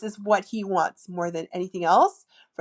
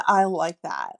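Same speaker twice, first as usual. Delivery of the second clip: flirty demo; 5 semitones lower, 4 dB louder than usual. Shown as a demonstration. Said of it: "just saying".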